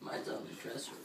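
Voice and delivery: numb tongue, words slurred; thick tongue lisp. Real, not acted. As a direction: talk with a numb burning tongue. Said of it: "Sam, your voice".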